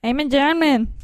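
quick, joking attempt at a German accent; mock German accent. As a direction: put on a light German accent. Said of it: "then you go to Germany".

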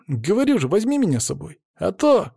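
put-on high boyish pleading; plaintive boy. A narrator's reading. Boy begs the man to take him, plaintive. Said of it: "жалобно посмотрел на меня мальчишка".

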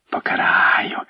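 sinister whispered promise. A narrator's reading. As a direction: boyar whispering his gloating vow. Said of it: "шепоче Филип".

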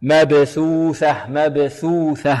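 slow chant of مبثوثة with two th sounds; both thaas clear. Shown as a demonstration. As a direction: recite مبثوثة slowly, each ث from the tongue tip. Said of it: "إذن ثاءان". (ترتيل بطيء بإيضاح الثاءين في مبثوثة)

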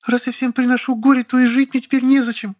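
high female character voice, whiny; Lilya, petulant. A narrator's reading. Lilya pleading with the narrator, high and petulant. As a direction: play the pouting woman, pitched high.

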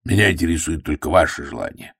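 lightly voiced, direct man; blunt. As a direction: say it straight out. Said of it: "напрямик высказался Блант".

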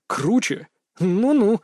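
mock her back with a falling tune; mimicking her. A narrator's reading. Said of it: "передразнил я её". (передразнивая, повыше, с издёвкой)

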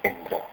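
इंद्र with the इ pitched high; stress on इ. Shown as a demonstration. Teacher repeating इंद्र for the student. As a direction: punch the इ of इंद्र. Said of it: "जोर से बोला जाता है उसको".

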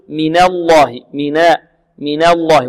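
na in "من الله" tilted toward "ne"; over-thinned, slanted vowel on the noon of "من الله"; tilted fatha. Shown as a demonstration. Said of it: "يميل فتحتها".

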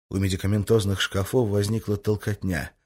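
ordinary delivery, nothing marked

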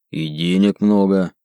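halting brute counting money; broken Dwarvish. Acted. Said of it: "на ломаном языке гномов".

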